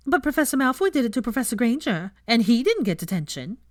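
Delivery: a hint of a whiny second-year; mock pupil excuse. The speaker quoting the cheeky second-year, lightly mocking whine. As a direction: imitate the boy's excuse. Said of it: "his excuse was".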